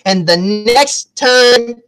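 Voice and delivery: slow, drawn-out acted threat; deliberate warning. Woman warns her beaten accuser, deliberate warning. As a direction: stretch the words between blows. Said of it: "and she's like".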